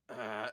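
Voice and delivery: low, brief mock growl; imitated growl. Imitating the demon manifesting in the man, mock growl. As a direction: give a small put-on growl. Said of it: "he's, like, growling at me".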